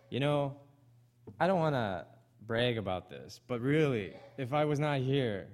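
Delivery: mock boastful. Preacher mocking a proud member to the congregation, hammed-up boast. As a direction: puff yourself up as the church's glue, half-joking. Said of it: "Have we thought sometimes".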